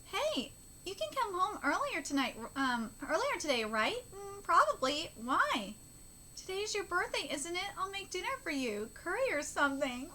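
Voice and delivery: put-on understated parent-and-child exchange; lightly voiced manga dialogue. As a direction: offer it casually, a touch shy. Reads tender birthday dialogue aloud.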